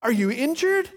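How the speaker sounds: high, fussing voice of a tiny lady; alarmed concern, played up; worried trainer. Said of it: "And she goes".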